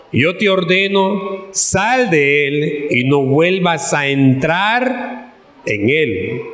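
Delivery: projected Bible reading, slowing into a solemn command; scripture reading. Acted. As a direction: read out the rebuke, stretching the order and dropping at the end. Reads the Bible verse aloud.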